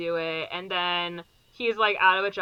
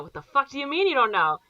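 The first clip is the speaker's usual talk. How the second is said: fast, higher-pitched retold outburst; mock outraged disbelief; 6 semitones higher, 4 dB louder, faster than usual. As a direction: fire it back in mock disbelief. Retelling an acted film confrontation.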